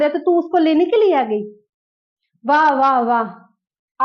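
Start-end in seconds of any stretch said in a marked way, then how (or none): 2.4-4.1 last wah stretched very slow; mock applause for her greed; sarcastic wah. Mocking the greedy birth mother, slow sarcastic wah.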